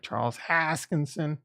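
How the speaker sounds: put-on slow, hammy Boston accent; drawn-out bad Boston accent. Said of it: "a bad Boston accent".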